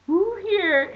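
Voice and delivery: high, loud mock preacher shout; mock preacher shouting at the train; preacher yelling. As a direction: bellow it at the whole train car. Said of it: "And he's yelling".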